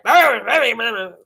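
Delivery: imitated rough, raspy growl of a voice; mock a voice worn out by yelling. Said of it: "All raspy".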